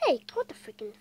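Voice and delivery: called out loudly. Real, not acted. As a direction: shout it across the room. Yelled then redone whispered.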